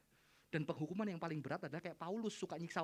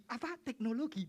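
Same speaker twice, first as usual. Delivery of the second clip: disbelief; 4 semitones higher, 4 dB louder than usual. Retold or imitated. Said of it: "Nggak percaya dia".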